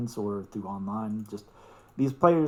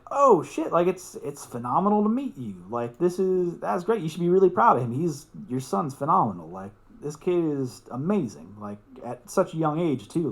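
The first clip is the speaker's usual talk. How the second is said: pitched way up, gushing with excitement; thrilled to meet the father, pour out praise; excited surprise; 3 semitones higher than usual. Retold or imitated. Meeting the player's father.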